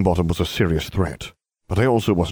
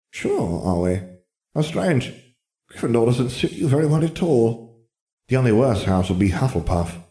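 raised, querying hat voice; Sorting Hat, doubtful; 6 semitones higher than usual. Acted. Hat questioning Harry's wish for Gryffindor, doubtful. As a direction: muse sceptically in a higher voice.

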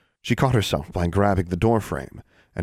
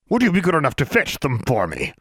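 posing as a man; 7 semitones higher than usual. A narrator's reading. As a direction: state your business in a stiff put-on voice. Disguised Alexandra gives orders as Mister Brown.

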